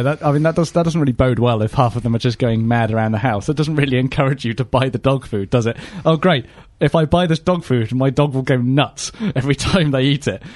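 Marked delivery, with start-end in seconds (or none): 6.0-10.4 lightly acted, sarcastic delight; mock enthusiasm. Dog owner imagining buying the food, mock-pleased. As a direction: pretend to be thrilled, sarcastically.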